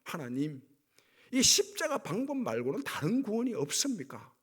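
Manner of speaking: imitated desperate cry. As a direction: act out a protesting cry from the cross. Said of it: "이런 절규거든요". (절규하듯 호소하는 흉내)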